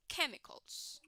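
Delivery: "Chemicals" whispered as a cue; whispered prompt. Shown as a demonstration. Teacher prompting Thompson in a whisper. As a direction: breathe the word as a prompt. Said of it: "Can you repeat it".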